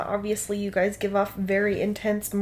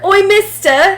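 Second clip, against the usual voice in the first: high, loud mock Cockney shout; pestering Cockney heckle; Luz Thorin; 11 semitones higher, 15 dB louder, slower than usual. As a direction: yell it in a hammed-up Cockney accent. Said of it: "or a Cockney British accent".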